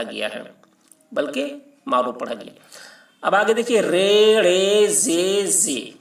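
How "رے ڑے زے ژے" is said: رے، رے، زے، زے with drawn-out long e, second رے retroflex; مجہول pronunciation. Shown as a demonstration. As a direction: stretch each letter on "ay". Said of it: "مجہول پڑھا گیا ہے". (مجہول تلفظ، لمبی "اے")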